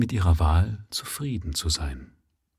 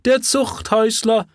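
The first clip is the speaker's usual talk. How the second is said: shrill high mocking cry, much higher; scornful jeer. Village woman jeering at the ex-convict, high mocking cry. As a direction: spit the insult out with scorn. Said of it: "höhnisch hinzu".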